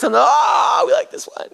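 very high, small excited squeal; playful high-pitched "oh" of recognition; mock delight. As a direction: coo it like a fan hearing a favorite song. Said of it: "our favorite song goes".

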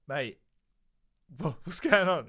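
high, loud, frantic asking; panicked question. Retold or imitated. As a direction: blurt it out in a rising panic. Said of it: "I was like".

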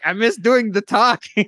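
high, slow, whiny drawn-out complaint; Puffin Forest guy imitation. Player griping about missing the talking, slow and whiny. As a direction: stretch it out like a grumbling storyteller. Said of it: "The way you just said that remind me".

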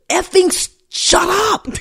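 high, sharp "shut up"; exasperated retort. Retold or imitated. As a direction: cut her off, high and sharp. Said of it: "I was like, Lynn".

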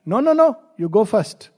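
lightly acted mother overruling a child; insistent mother. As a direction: cut off the protest firmly.

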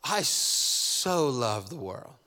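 lovingly, taking your time; gentle quoted Jesus. Acted. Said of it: "Jesus very clearly states".

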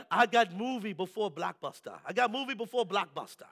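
imitated Jamaican seller's boast; amateur Jamaican accent, street sales patter; rusty Jamaican accent. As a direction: hawk it in a put-on Jamaican accent. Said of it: "a little rusty on my Jamaican ask, uh, uh, accent".

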